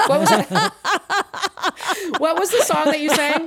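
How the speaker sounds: high, loud question through laughter; laughing. Real, not acted. Mom laughing while asking about the song. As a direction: ask while cracking up.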